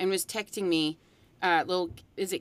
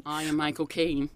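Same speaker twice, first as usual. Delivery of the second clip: lower-pitched British butler impression; Michael Caine; 4 semitones lower than usual. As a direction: play the superhero's dutiful butler. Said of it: "how to do a Michael Caine".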